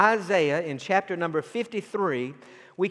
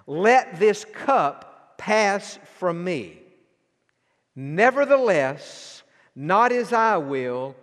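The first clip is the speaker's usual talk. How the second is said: pleading prayer; slower than usual. Acted. Preacher voicing Jesus' prayer.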